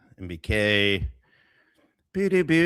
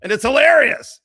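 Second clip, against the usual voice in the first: laughing disbelief; 12 semitones higher, 5 dB louder, slower than usual. Real, not acted. Laughing at rival's claim.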